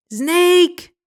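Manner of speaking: high piercing scream of "Snake!". A narrator's reading. Pigeon screaming at Alice in fright. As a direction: shriek it at full force. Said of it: "screams the pigeon".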